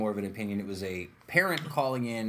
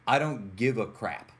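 put-on slow kid retort; slower than usual. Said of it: "So I used the words".

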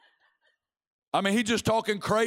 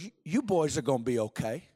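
low, reassuring seer's voice; gentle, lowered word of comfort; Bob Jones; 5 semitones lower than usual. Acted. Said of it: "I've heard Bob Jones's voice".

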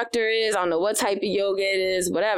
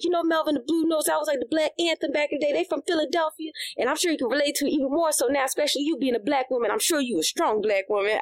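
chatty clerk; 6 semitones higher, faster than usual. Retold or imitated.

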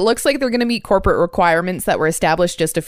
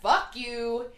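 muttered angry tirade. Acted. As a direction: mutter the curses under your breath.

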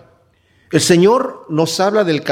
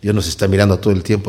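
put-on trembling child; 8 semitones lower than usual. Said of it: "se quedó así como temblando".

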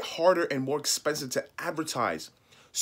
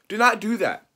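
whispered plea, breathy and pitched up; urgent whisper; 8 semitones higher, 6 dB louder than usual. Real, not acted. Coach begging his students, whispering. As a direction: hiss it like a secret warning. Pleading with viewers not to.

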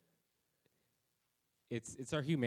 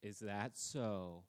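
slow, doubting drawl; lightly voiced parent, slow and doubtful; skeptical parent; much slower than usual. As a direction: let them know you don't buy it. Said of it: "your parents will look at you and just be like".

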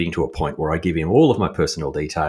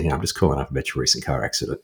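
quick scammer patter; 3 semitones lower, 4 dB quieter, faster than usual. Retold or imitated. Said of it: "I'm not gonna do the Irish accent".

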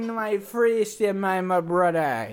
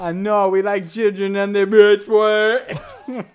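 put-on Jamaican accent; 4 dB louder than usual. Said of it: "Jamaican cruise".

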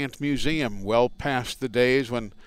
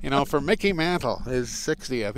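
higher, lightly voiced old-time baseball announcer call; Mel Allen catchphrase; 4 semitones higher than usual. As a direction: toss off a light imitation of a classic home-run call. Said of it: "his signature saying was".

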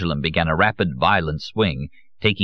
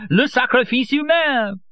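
slower ecstatic repeat, much higher; transported, drawn out. A narrator's reading. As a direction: stretch "humain" in rapture.

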